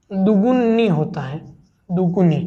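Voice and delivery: दुगुनी stretched slowly, each syllable clear; slow correct spelling. Shown as a demonstration. Teacher slowly modelling दुगुनी as the correct word. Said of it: "ये शुद्ध शब्द है".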